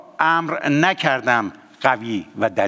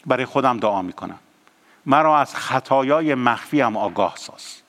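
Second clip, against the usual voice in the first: prayer; 3 semitones higher than usual. Acted. Leads a prayer.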